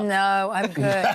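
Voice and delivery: hoarse, slow croaky reply; talking through a sore throat. Real, not acted. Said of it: "despite my croaky voice".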